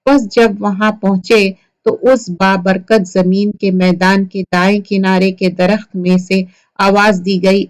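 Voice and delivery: ordinary talk, nothing marked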